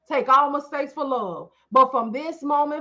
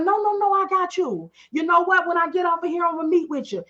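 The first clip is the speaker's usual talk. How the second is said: eager promise; 5 semitones higher than usual. Retold or imitated. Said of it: "And I was like".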